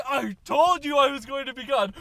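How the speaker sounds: high, loud exasperated owner; an owner loudly arguing with a barking dog; shouting owner. Retold or imitated. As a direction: yell it in the middle of an argument.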